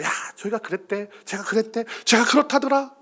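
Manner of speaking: hushed tell-tale voice, rising as it goes; gossiping. Acted. Church member spreading someone's story, gossipy undertone. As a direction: pass it on like a secret rumour.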